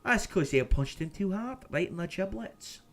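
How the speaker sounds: loud, high, hammed-up Scottish brogue; Scottish accent. Streamer clowning about giblets, loud Scottish accent. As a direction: play it up as a riled-up Scot. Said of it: "'cause I'm gonna go Scottish".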